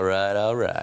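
drawling vocal fry voice. Trying the vocal fry example after the teacher: Matthew McConaughey impression. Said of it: "do, like, a Matthew McConaughey impression".

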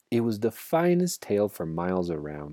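ordinary delivery, nothing marked

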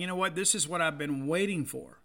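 ordinary delivery

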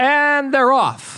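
very high horse-race announcer call. Host kicking off the show, horse racing announcer voice. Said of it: "that's my horse racing fucking voice".

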